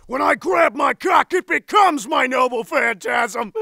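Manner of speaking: boldly projected voice-acting take; declaimed line. Actor in a recording booth proclaiming a heroic line, declaimed.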